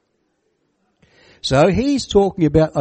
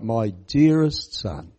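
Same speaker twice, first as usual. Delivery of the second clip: tender endearment; 3 semitones lower, much slower than usual. Shown as a demonstration. Preacher showing the father's endearing word, slow and tender. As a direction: say it like a loving father. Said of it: "it's an endearing word".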